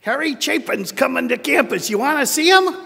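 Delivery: a professor excitedly asking a student along; excited invitation. Retold or imitated. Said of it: "who said".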